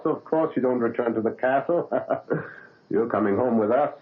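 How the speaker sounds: chuckling reassurance; laughing. Acted. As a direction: laugh the worry away kindly. Doctor amused by patient's refusal.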